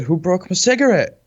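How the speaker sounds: put-on high valley girl voice; lilting valley girl question. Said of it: "you said it like a valley girl?".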